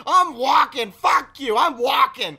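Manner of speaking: loud, high, worked-up rant; indignant storming-off outburst; furious refusal. Retold or imitated. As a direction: hurl the refusal at them.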